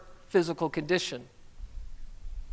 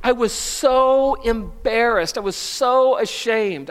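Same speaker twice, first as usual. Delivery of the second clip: slow sad confession; 4 semitones higher, 3 dB louder, slower than usual. Real, not acted. Recalling humiliation.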